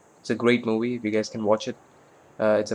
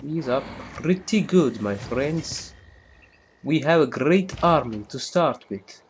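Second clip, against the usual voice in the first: mock Russian accent, pitched up; bad Russian accent; 4 semitones higher than usual. Streamer playing Russia slips into a clumsy Russian accent. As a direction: ham up a clumsy Russian general voice. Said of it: "I know my Russian accent, Russian accent, is very terrible".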